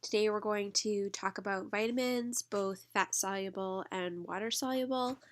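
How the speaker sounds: blocked nose from allergies; stuffed up nose. Real, not acted. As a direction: speak through a stuffed up nose. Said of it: "so if I sound stuffed up".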